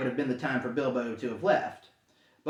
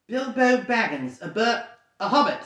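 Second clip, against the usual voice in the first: frightened; 6 semitones higher than usual. Acted. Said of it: "shaking all over".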